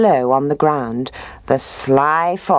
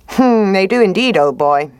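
high, smooth sly fox; higher voice for the sly fox; 5 semitones higher, 4 dB louder than usual. Acted.

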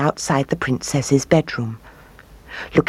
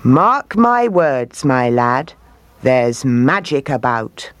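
slow, knowing delivery with swooping emphasis; a hint of an old storyteller, drawing out the warning; lightly voiced old man; 2 semitones lower, slower than usual.

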